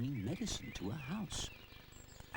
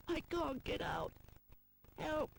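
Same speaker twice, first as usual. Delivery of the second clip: mild call for help; 14 semitones higher than usual. A narrator's reading. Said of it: "he calls".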